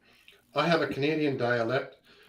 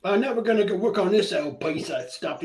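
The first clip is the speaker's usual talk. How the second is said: imitating a friend at work, pitched up; Mick; 6 semitones higher than usual. Quoting a friend fixing a mower, higher imitated voice. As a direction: put on a higher voice, affectionately mimicking. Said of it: "I love listening to Mick".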